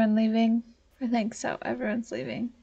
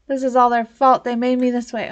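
furious sim; 5 dB louder, faster than usual. Acted. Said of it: "she's furious".

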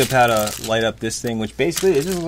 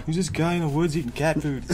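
bad Russian accent; 5 semitones higher than usual. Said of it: "Speaking in a bad Russian accent".

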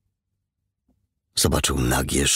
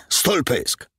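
higher snarled put-down; 9 semitones higher than usual. A narrator's reading. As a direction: snarl it at him. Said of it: "warknął Siergiej".

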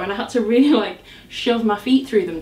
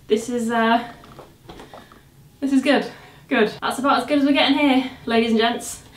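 out of breath. Real, not acted. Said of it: "I'm literally out of breath".

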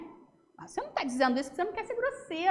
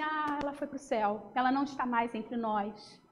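gentle; 4 semitones lower, 5 dB quieter than usual. Shown as a demonstration. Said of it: "Então diz assim".

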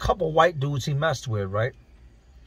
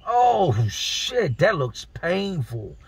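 wincing shock; 3 semitones higher, much slower than usual. Retold or imitated. Inmate seeing his friend's swollen jaw, wincing shock. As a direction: stretch it out in pained amazement.

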